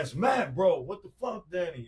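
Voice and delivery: high-pitched agitated imitation; retold yelling. Friend insisting who he is on the phone, high and agitated. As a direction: re-enact a frantic caller, loud at first. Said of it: "he's yelling and screaming".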